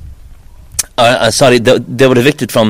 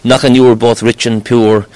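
lilting irish storyteller. Retold or imitated. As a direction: lilt the blessing rhyme like a storyteller. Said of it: "made another verse".

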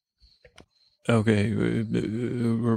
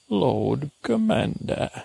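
slow, higher ceremonial call of the title; drawn-out title call; 4 semitones higher, slower than usual. Acted. Calling the dog by his grand title, drawn out slowly. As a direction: intone it like a herald.

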